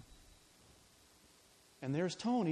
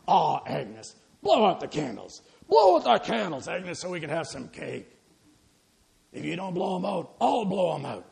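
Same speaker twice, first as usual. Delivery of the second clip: louder, gruff cook barking at her; gruff loud urging; 10 dB louder than usual. Acted. Cook hurrying Agnes to blow out candles, loud and gruff. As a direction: cover the emotion with volume.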